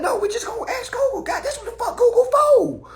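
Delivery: high, loud laughing rant; real laughter at the absurdity. Real, not acted. Laughing rant about Google.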